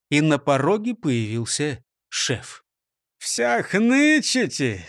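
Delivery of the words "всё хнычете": gloomy mockery. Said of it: "с мрачной издёвкой".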